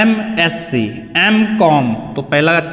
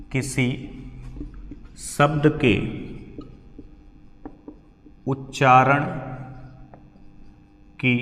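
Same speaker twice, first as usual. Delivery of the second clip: word-by-word dictation pace; 2 semitones lower, 7 dB quieter than usual. Acted. Teacher dictates rule for writing.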